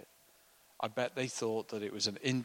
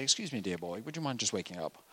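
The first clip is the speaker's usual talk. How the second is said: prim polite request; 3 semitones lower, faster than usual. Retold or imitated. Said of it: "don't normally say".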